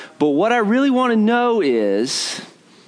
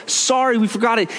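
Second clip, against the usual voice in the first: sheepish skier; 5 semitones higher than usual. Retold or imitated. Skier answers scolding reporter.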